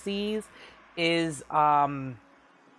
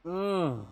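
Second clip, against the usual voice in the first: tea-sipping hum; 3 semitones higher, 4 dB quieter than usual. Real, not acted. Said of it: "I will be sipping on some tea here like this".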